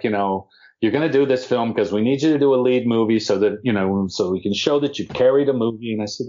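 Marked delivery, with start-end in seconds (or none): 0.8-5.9 lightly voiced pushy Brooklyn agent; a touch demonstrative, imitating an agent's pitch; hint of an over-the-top Brooklyn agent; Lewis Ambrosio. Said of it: "very demonstrative and very over the top".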